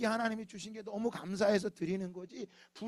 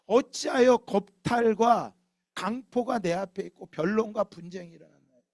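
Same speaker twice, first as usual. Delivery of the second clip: 외치는 기도; 6 dB louder than usual. Acted. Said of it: "그래서 외치는 거예요".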